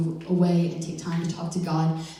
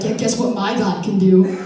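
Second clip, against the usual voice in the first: cocky; 5 dB louder than usual. Retold or imitated. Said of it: "he's kinda cocky".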